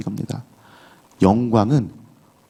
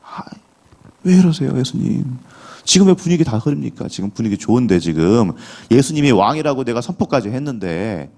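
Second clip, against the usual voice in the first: acted-out pleading objection, pitched up; indignant protest; 4 semitones higher than usual. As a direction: protest to Jesus like an exasperated disciple. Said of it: "항변을 하는 거예요".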